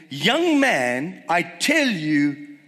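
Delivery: slow, measured command with weighty pauses; solemn command. Retold or imitated. Jesus to the dead young man, solemn command. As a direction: command it slowly, word by word.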